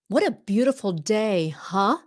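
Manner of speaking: statement turned question with huh; question tag huh. Shown as a demonstration. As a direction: end on a friendly huh. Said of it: "Quý vị, practice that".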